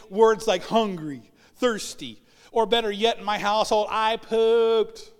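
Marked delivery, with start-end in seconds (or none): 3.9-5.1 put-on slightly louder little-kid announcement; toddler announcing. Toddler telling the family, lightly voiced child. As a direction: proudly declare it like a small child.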